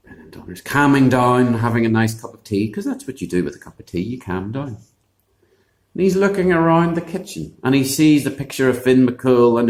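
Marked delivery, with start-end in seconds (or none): none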